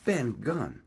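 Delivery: loud, high roar of sudden recognition. A narrator's reading. Silver realises who the voice is, a loud roar. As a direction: roar the name out. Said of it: "roared Silver".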